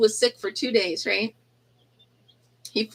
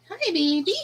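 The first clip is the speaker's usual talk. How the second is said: higher, brighter coo on hi; 8 semitones higher than usual. Real, not acted. Greeting the chick again, higher baby talk. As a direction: lift the greeting up like to an infant.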